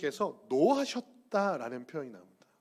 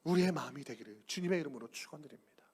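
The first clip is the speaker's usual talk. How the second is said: soft unvoiced prayer; whispered blessing; 4 semitones lower, 8 dB quieter than usual. Real, not acted. Pastor blessing the congregation in a whisper. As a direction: breathe the blessing out softly. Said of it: "whispered blessing".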